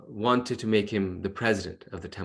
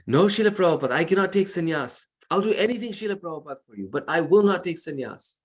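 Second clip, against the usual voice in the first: higher, anxious begging refusal; pleading disciple; 7 semitones higher than usual. Retold or imitated. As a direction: plead with your guru, voice pitched up. Disciple desperately refuses his guru.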